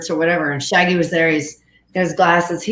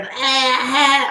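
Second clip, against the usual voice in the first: A singer; 4 semitones higher than usual. Retold or imitated. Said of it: "she's got a very distinct sort of".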